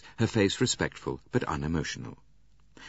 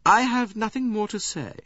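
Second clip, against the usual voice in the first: coldly; 4 dB louder than usual. A narrator's reading. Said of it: "She said coldly".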